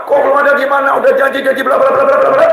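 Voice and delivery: hammed-up nagging, fast; mock angry wife. Preacher mimics an angry wife scolding her husband, fast and high. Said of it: "istrinya marah-marah".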